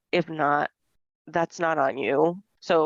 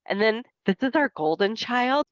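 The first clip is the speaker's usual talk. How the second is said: a lightly raised, sing-song proud mom; proud mom introducing; 5 semitones higher than usual. Retold or imitated. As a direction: introduce the family with a hint of mom's pride. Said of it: "My mom would introduce us as".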